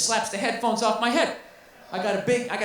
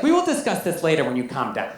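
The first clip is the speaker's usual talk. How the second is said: put-on prim girlfriend; 8 semitones lower than usual. Girlfriend's condescending reply.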